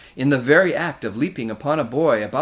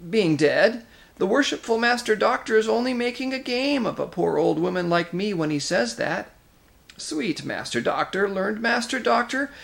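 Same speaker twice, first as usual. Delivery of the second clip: shrill, mock-sweet crone pitched way up; shrill whining hag; 10 semitones higher than usual. A narrator's reading. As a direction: whine and fawn like an old witch. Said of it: "the shrill whining voice began".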